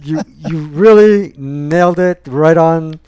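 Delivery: slow, slurring words; slurred Biden impression. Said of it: "I'm acting like Biden now".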